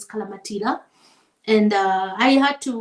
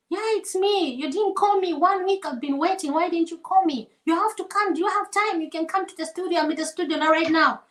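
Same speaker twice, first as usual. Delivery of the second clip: raised, pushy pleading voice; insistent producer; 4 semitones higher than usual. Retold or imitated. Producer urging her to come to the studio, insistent. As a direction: press her to come right now. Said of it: "He really insisted".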